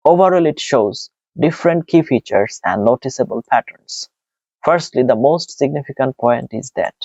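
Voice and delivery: slow, even exam-answer reading; model answer read-out. Shown as a demonstration. Teacher reads a template for students, slow and even.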